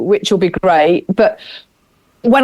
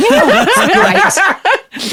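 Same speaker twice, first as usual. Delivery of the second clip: mock-praise with a laugh, higher; sarcastic dominatrix; 11 semitones higher than usual. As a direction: sneer it like a playful domme. I do love a little bit of acting.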